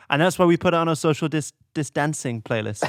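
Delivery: slips into a northern English accent; a flat northern vowel on dancing. Real, not acted. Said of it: "I said it like a northerner".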